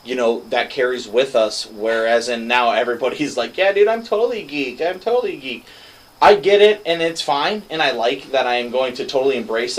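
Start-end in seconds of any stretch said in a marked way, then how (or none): 3.6-5.7 high, dopey bro impression; mocking dude voice. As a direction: parody a trendy poser. Mocking trendy fake geeks.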